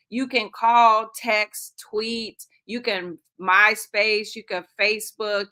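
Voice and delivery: slow, deliberate over-articulated listing; slow careful announcer read; detailed voice. Shown as a demonstration. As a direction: spell out each option carefully. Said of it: "let me try to do it in my detailed voice".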